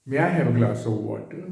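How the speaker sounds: slow, with "glass" and "water" stressed; gentle stressed request. Shown as a demonstration. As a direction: lean gently on "glass" and "water", rising at the end. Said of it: "मेरी tone कैसी?". ("glass" और "water" पर ज़ोर देकर धीमी विनती)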